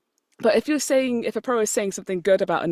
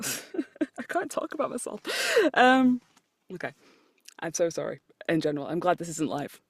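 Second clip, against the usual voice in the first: ordinary talk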